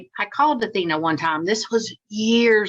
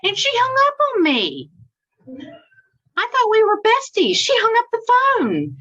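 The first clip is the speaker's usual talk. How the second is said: indignant high; 14 semitones higher than usual. Real, not acted. Outraged at being hung up on.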